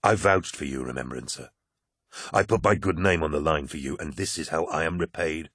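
low, quiet bitter rebuke; cold betrayal in every word; bitter Loken. Acted. Loken rebukes the poet who betrayed him, low and bitter.

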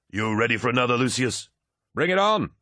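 high, building to a pealing cry; exultant, high-pitched dare; cocky challenge. A narrator's reading. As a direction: goad the next opponent in. Cocky winner challenges next fighter.

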